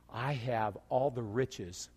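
slow and grand as God. Acted. Preacher voicing God to congregation, slow and grand. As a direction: lay out the riches slowly. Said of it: "And God says".

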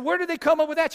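high-pitched mock disbelief; incredulous. Dad challenges what his daughter learned, incredulous. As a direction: retell it as a baffled dad, voice jumping up.

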